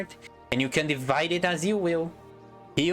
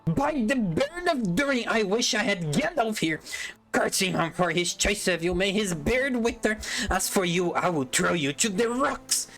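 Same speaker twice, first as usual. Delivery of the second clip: angry cry; 6 semitones higher than usual. Acted. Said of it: "he cried".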